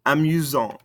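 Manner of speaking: "Amusante" falling onto an audible T; sounded ending consonants. Shown as a demonstration. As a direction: release the T of "Amusante". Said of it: "makes us pronounce those ending consonants".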